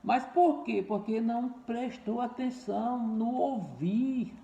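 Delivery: ordinary talk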